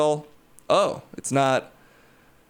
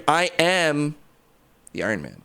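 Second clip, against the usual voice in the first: Iron Man line. Retold or imitated. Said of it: "I did reanimate Tony Stark".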